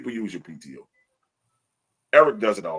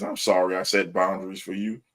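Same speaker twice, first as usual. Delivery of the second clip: understated mock apology; sarcastic sorry. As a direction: apologize without meaning a word. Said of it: "the sorry is sarcastic sorry".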